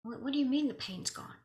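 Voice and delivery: a touch of baffled astonishment; retold disbelief. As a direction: question it as if you can't believe it. Retold reaction to pain vanishing.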